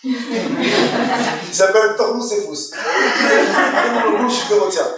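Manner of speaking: drawn-out words broken by real laughter; laughing through the name, slowly. Real, not acted. Rabbi laughing at the student's joke while naming the goy, laughing.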